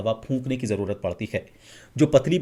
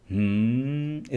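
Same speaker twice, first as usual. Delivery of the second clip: wrong hum with h; much slower than usual. Shown as a demonstration. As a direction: hum starting with an h sound. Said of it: "इस तरह से नहीं, सिर्फ म". (ह मिला हुआ हम्म)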